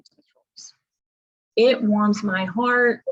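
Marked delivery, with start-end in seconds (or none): 0.0-0.7 whispered aside. Real, not acted. Gleeful aside about answering trolls.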